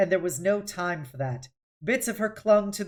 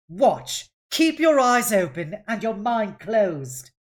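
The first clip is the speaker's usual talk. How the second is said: louder, slow stern order; stern command; 4 semitones higher, 6 dB louder, slower than usual. Acted. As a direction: drill the lesson into her. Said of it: "snapped Yaha Yaha".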